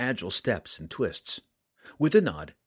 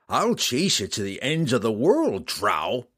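roaring; 4 dB louder than usual. Acted. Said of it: "Roddy roared".

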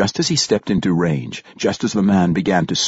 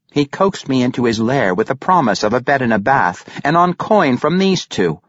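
Regis; 5 semitones higher than usual. A narrator's reading. Regis explains.

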